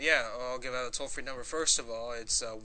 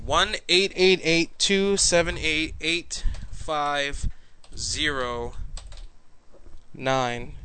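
loud, slow and clear; 2 semitones higher, 5 dB louder, much slower than usual. Shown as a demonstration. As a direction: spell it out loudly for listeners. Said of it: "say it nice and loud for the people".

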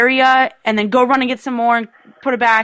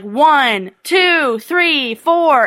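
raised, rising count; demonstrated counting aloud; 3 semitones higher, much slower than usual. Shown as a demonstration. Caller shows contestant how to count, mildly yelled. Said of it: "start yelling, like, uh, how many items".

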